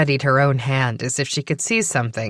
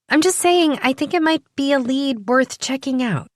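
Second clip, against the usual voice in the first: put-on higher, eager young woman; 8 semitones higher than usual. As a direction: play her keen and curious. Primrose's voice.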